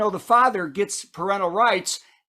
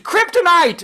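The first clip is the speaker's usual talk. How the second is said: mock scream; 7 semitones higher, 5 dB louder than usual. Geckos screaming.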